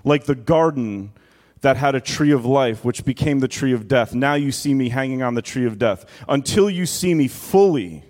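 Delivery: solemn first-person Jesus, measured pauses; voicing Jesus. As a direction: speak as Christ from the cross, gravely.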